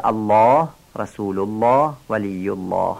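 الله with a thick, dark L each time; heavy لام. Shown as a demonstration. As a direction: fill out the ل of الله after a or u. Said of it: "کی درشت خوانده میشه؟". (لفظ الله با لام درشت و پر)

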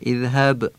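اذهب with a simple breathed h; ordinary light h. Shown as a demonstration. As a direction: say the ه in اذهب normally, no rasp. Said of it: "هی دو چشم معمولی خوانده بشه".

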